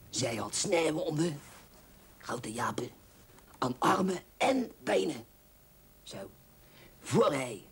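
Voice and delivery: slow, breathy romance-novel reading; hammed-up pulp romance voice; dramatic reading. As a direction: savour each line of the cheap novel. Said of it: "Ik zal dit voorlezen".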